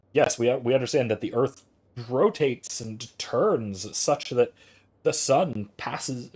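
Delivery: slow, over-careful scientific wording, then giving up; stilted literal phrasing. Shown as a demonstration. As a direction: spell out the rotation pedantically, slowly. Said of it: "God, I can't even say it".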